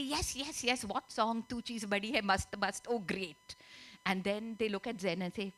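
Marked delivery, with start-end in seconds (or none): 0.0-2.9 light, bubbly acting of a keen cousin; eager agreement. Outgoing sister says yes to the cousins' song, eagerly.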